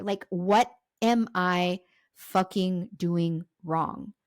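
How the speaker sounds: slow, word-by-word exasperation; mildly angry, drawn-out question; retold exasperation. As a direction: spell out your frustration with heavy pauses. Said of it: "out of anger and frustration".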